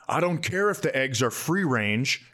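ordinary delivery

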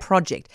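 "Project" said the British way, PROJ-ect with a short o and stress on the first syllable; "Project" with a crisp short o, stress on the first syllable; British pronunciation. Shown as a demonstration. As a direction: land "Project" like the winning answer, short o up front. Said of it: "And thank you, I win".

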